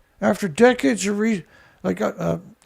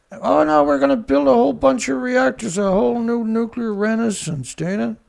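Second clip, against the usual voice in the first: mocking quote; 4 semitones higher than usual. Mocking the pro-nuclear officials.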